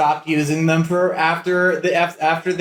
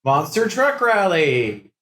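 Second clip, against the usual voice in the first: monster truck ad; slower than usual. Pretend.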